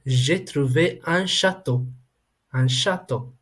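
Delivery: "un château" said distinctly in French; careful teacher's French reading of "j'ai trouvé un château"; French pronunciation demo. Shown as a demonstration. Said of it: "aware of the pronunciation first".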